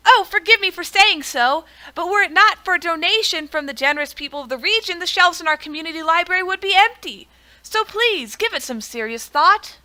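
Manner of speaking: pleading librarian. Acted.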